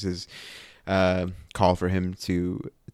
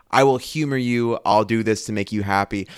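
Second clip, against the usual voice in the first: grudging humoring. Retold or imitated. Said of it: "this reads so much as a".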